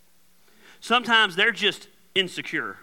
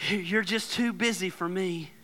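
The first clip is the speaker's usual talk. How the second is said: whiny complaint; 7 dB quieter than usual. Acted. Voicing complaining relative.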